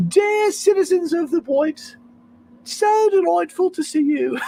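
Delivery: very high, put-on regal British accent; hammed-up British queen greeting her subjects; fake British queen. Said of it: "when I do my fake accents".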